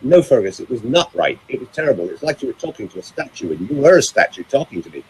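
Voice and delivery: imitated scolding, mildly heated; insistent mock reprimand; retold telling-off. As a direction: have a go at him, as the girlfriend. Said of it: "she really had a go at me".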